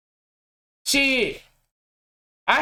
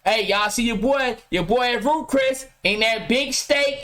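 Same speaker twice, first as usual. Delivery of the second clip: mock show-off; 3 semitones lower than usual. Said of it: "that's the time he took a picture".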